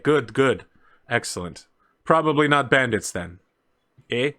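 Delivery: put-on light Canadian accent, pleased, ending on eh; a hint of a Canadian captain, satisfied; lightly Canadian, content. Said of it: "I keep forgetting he's Canadian".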